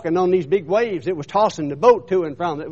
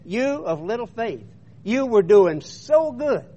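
higher, drawn-out reproach; retold chiding; 4 semitones higher, slower than usual. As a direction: voice a teacher's slow, disappointed reproof. Retold Jesus gently chiding Peter.

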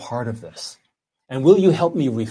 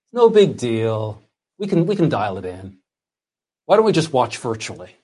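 making light of it. Acted. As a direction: shrug it off lazily, as if it hardly matters. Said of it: "they made light of it".

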